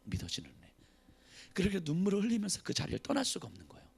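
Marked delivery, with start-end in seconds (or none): 0.0-0.7 breathy whispered echo. Real, not acted. Preacher whispering the key phrase to the church. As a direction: whisper it like a secret.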